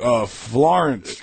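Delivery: slow unsure answer, stalling; buy time, guessing a city; hesitant. Retold or imitated. Answering the Italian fan, slow and unsure. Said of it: "So I was just like".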